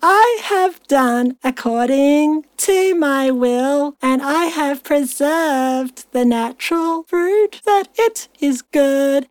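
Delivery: slow, drawn-out verse reading; scripture reading. Acted. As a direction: read it out slowly like scripture. Reads scripture aloud.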